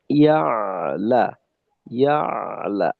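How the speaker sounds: ইয়ালা with a held throat ayn after ya; ayn articulation. Shown as a demonstration. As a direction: hold the ayn steadily in ইয়ালা. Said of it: "আইনের আওয়াজটা".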